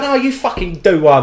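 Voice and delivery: high, loud, laughing imitation; mock angry retort. Old woman refusing the driver's gesture, mock indignant retort. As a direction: act out an indignant comeback.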